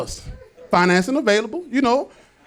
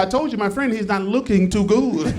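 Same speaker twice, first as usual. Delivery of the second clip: put-on Hispanic accent; 4 semitones lower than usual. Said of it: "Hispanic guy".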